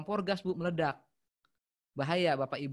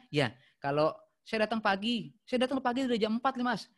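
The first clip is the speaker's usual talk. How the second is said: high, loud complaint; complaining caller; 6 semitones higher, 5 dB louder than usual. Shown as a demonstration. Caller complaining he came at four, high and loud. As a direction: insist you came at four. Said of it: "Maksudnya gimana?".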